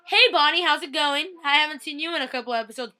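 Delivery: high, loud, chirpy hello; hammed-up greeting. Fan hailing Bonnie after missing episodes, hammed-up greeting. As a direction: greet loudly as if long unseen. Mock greeting to returning character.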